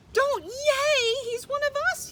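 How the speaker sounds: high, loud scolding yell. A narrator's reading. Pip yells at the cheering crowd to stop, high loud yell. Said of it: "yelled Pip".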